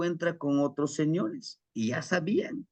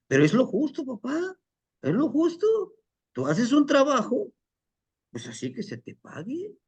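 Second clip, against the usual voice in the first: much higher voiced son insisting it's only fair; indignant son; 11 semitones higher than usual. Son insists to his father on fair pay, high and indignant. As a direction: press the point like a resentful young man. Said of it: "Le dice".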